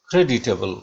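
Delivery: क्रेडिटेबल starting high on the first syllable and falling away; demonstrated falling pitch across "क्रेडिटेबल"; high-to-low tune. Shown as a demonstration. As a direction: let "क्रेडिटेबल" slide from top to bottom. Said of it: "ऊपर से नीचे".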